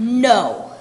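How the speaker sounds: loud gasping disbelief; shocked no. Acted. Shocked villagers trading gossip.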